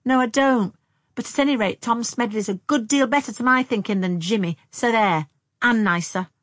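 high, loud, emphatic comeback; indignant retort. A narrator's reading. Younger sister defending Tom to her sister, indignant. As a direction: insist loudly, pitched well up.

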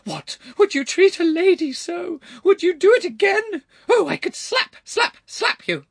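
very high, loud outraged lady; shrieking. A narrator's reading. Shoved lady appealing to the good people, shrieking. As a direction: shriek indignantly to the whole crowd. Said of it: "she shrieked".

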